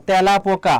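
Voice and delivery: তেলাপোকা stretched slowly, opening with an open "tyæ"; drawn-out demonstration. Shown as a demonstration. Teacher showing students how a written word sounds, drawn-out demonstration. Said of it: "তারপর আমরা যদি লিখি".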